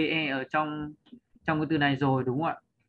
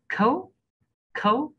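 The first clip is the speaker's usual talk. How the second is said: "khấu" lifted high with a rising tone; raised stressed syllable; 9 semitones higher, 3 dB louder, slower than usual. Shown as a demonstration. Teacher showing learners a stressed syllable, "khấu" pitched up and rising. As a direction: let "khấu" soar upward as the stressed syllable. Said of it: "đọc bổng lên ấy".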